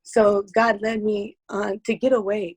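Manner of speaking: fighting back tears, pitch up; emotional, near tears. Real, not acted. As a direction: voice tight with held-back tears. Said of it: "I'm gonna get emotional".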